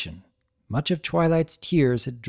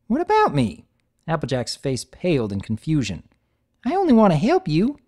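much higher, louder bewildered plea; confused Applejack; 3 semitones higher, 3 dB louder than usual. Acted. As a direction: friend begging to help.

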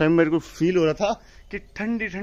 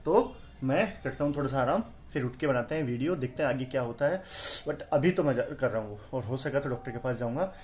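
feeling sick; 3 semitones lower, 6 dB quieter than usual. Real, not acted. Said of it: "बोला नहीं जा रहा".

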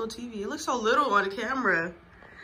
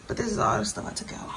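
whispering; faster than usual. Real, not acted. Whispered aside.

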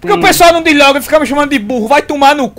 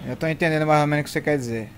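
cursing under breath; 10 semitones lower, 14 dB quieter, faster than usual. Real, not acted. Muttered reply to teammate.

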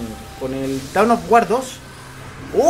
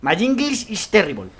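bad Spanish-accented English; 3 semitones higher, slower than usual. Shown as a demonstration. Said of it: "mi pronunciación en inglés es terrible".

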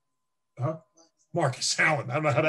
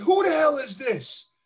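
high, loud mock indignation; retold snap; 10 semitones higher, 4 dB louder than usual. Player retelling answering the phone, loud mock indignant. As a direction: bark it like you've been pranked. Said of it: "And I said".

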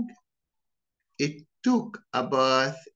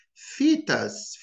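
"fetus" with an American flapped t; American pronunciation. Shown as a demonstration. Teacher contrasting the accents, American take. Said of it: "and notice the difference".

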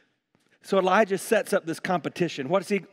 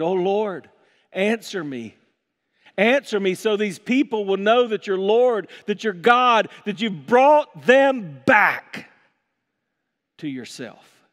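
prayer building to a drawn-out, forceful peak; fervent prayer; 3 dB louder, slower than usual. Acted. Elijah begging God to answer before the people, building plea. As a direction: plead with growing force, stretching the last words. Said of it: "he prayed".

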